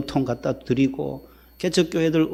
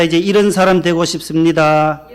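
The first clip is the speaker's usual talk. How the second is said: leading a call-and-repeat; 3 semitones higher, 6 dB louder than usual. Shown as a demonstration. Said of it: "따라합시다".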